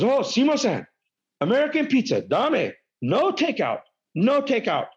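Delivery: high, insistent imitation of the waitress. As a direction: mimic the frantic waitress, high and pleading. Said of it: "And the lady goes".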